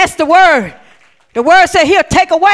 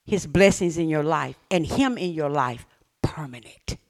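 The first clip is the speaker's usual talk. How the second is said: breathy whispered emphasis; 8 semitones lower, 10 dB quieter than usual. Real, not acted. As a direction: whisper it like a secret. Whispered point in sermon.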